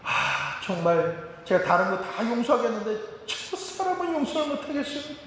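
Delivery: fed-up believer begging God for help; retold tearful complaint prayer. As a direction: wail your grudge to God, half-mocking. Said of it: "예수님 앞에 나와서 기도할 때".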